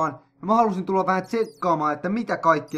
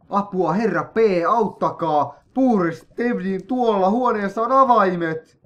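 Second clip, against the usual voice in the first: raised, higher mock cry for help; a lightly acted plea for rescue; trapped character calling for help; 5 semitones higher, 4 dB louder than usual. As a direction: voice the trapped villager begging to be rescued. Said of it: "Joku huutaa siellä juttuja".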